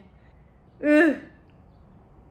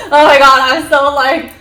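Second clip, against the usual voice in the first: freaked out; 6 semitones higher, 9 dB louder than usual. Real, not acted. Freaked out by the rat.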